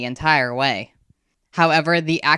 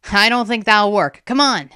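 higher, louder, urgent refusal; anxious urging; 6 semitones higher, 5 dB louder than usual. A narrator's reading. Boy pulling his friend from a monster, anxious urging. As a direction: hurry a friend away from danger. Zin urges retreat from monster.

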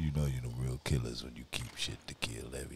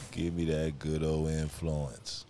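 slow, louder, relishing drawl; gloating; 9 dB louder, slower than usual. Real, not acted. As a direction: savour every word. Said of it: "repeated after the laugh".

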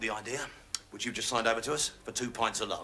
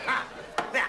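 usual speaking voice

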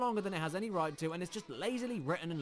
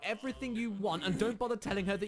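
higher-pitched indignant rant; mock outraged scolding; 4 semitones higher than usual. Reviewer berating the soldier who deceived the lady, mock outrage. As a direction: tear into him in mock outrage.

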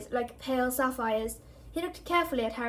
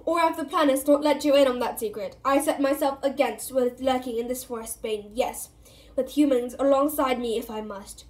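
loud, defiant centaur voice; bellowing; 5 dB louder than usual. Acted. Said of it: "Firenze bellowed at Bane".

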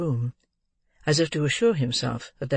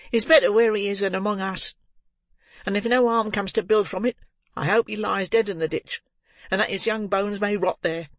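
put-on high-pitched, vehement young woman; bitter defiant girl; 6 semitones higher than usual. A narrator's reading. Girl wishing the boy dead, bitter and defiant. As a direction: spit it out high and hard.

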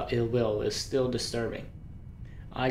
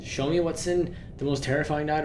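hyped; 3 semitones higher than usual. Real, not acted. Hyping himself into the chapter.

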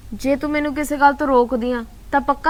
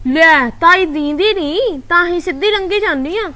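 grumbling aunt; 4 semitones higher, slower than usual. Retold or imitated. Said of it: "ਉੱਠ ਕੇ ਬੁੜਬੁੜ ਕਰਨ ਲੱਗ ਪਈ".

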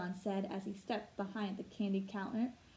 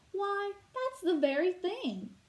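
high, louder breathless delight; 8 semitones higher, 5 dB louder than usual. Acted. A relieved customer finds her dishware, breathless and high. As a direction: gasp it out in relief. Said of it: "Missus Mosswood said breathlessly".

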